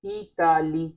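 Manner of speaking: इताली with a clear open "aa" and stress at the end; French pronunciation. Shown as a demonstration. Teacher modelling French Italie for students, careful pronunciation. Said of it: "pronounce almost same होगा".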